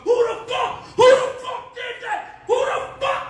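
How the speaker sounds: imitating an enraged boss; mock furious boss. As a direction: rage over the walkie-talkie. Boss yelling on walkie.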